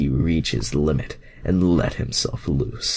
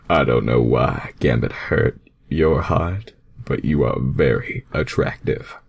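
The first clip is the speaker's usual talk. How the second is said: Sonic's voice; 3 semitones lower than usual. Acted. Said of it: "Sonic commented".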